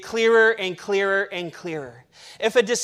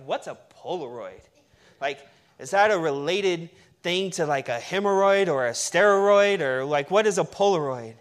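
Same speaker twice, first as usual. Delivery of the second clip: mock millennial; 5 semitones lower than usual. Pastor teasing the millennial in the room, mock puzzled voice. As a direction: lightly play a clueless kid asking about cameras. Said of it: "We got a millennial in here".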